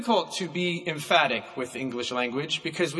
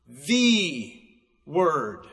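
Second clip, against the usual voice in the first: capitalized "the" with a falling Word; stress on the; 3 semitones lower than usual. Shown as a demonstration. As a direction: set "the" apart, then land Word. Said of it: "take the word "the" and capitalize it".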